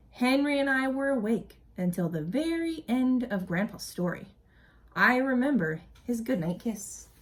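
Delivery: storybook narration for a class; expressive read-aloud story voice; reading aloud to children. A narrator's reading. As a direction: read it like a teacher sharing a picture book. Reading picture book aloud.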